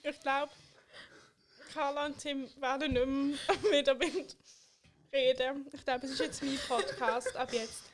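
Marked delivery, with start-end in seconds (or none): 1.7-5.7 talking through laughter; laughing. Real, not acted. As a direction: laugh out the words. Laughing while telling the news.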